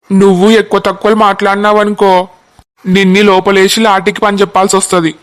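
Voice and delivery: a constable scolding youths for blocking the road; lightly voiced cop laying down the law; stern police constable. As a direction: tell them off with police authority. Constable threatens the boy.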